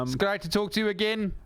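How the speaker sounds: put-on high South African accent; Elon Musk. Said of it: "only South African accent I can do".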